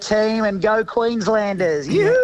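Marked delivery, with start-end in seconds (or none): 1.9-2.3 high, loud cheer; excited yoo-hoo. Real, not acted. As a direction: whoop it like a fan. Cheering for Queenslanders.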